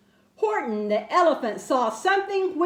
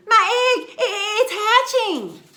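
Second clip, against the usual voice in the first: high, laughing and near tears; choked up with delight; overjoyed cry; 7 semitones higher, 4 dB louder than usual. A narrator's reading. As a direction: Horton laughing and crying at the hatching. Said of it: "shouted Horton".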